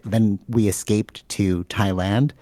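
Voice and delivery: each word slowly drawn out; oddly slow. Real, not acted. Retelling the guy's escape, oddly slow. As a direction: stretches the line out without meaning to. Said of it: "Why did I say it like that?".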